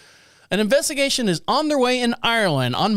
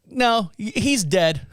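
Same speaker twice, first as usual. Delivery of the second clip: laughing; 3 semitones higher, slower than usual. Retold or imitated. Clerk voiced, laughing.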